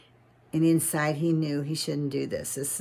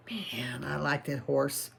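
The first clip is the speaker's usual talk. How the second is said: low, much softer longing murmur; inner thought; 3 semitones lower, 6 dB quieter than usual. Acted. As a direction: think it to yourself, quietly wishing. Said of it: "inside, he was just like".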